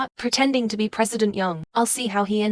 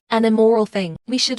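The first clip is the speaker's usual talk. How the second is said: loud, scornful condemnation; louder accusing outburst; angry denunciation; 4 dB louder than usual. Acted. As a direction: spit it out in disgust at him. Villagers condemn the accused man.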